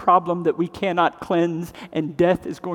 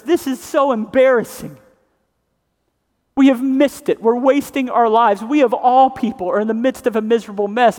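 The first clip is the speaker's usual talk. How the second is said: church lamenting; 4 semitones higher, 5 dB louder than usual. Retold or imitated. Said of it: "He goes".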